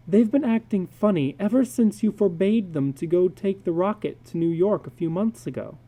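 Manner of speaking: a lightly voiced anxious wife asking; wife questioning her husband in the dark; wife's voice.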